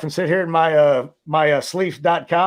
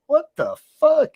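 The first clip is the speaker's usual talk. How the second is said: drawn-out, much higher, stunned what the fuck; shocked disbelief; 10 semitones higher than usual. Retold or imitated. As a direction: hit it high and slow like you can't believe your eyes. Disbelief at a late visitor.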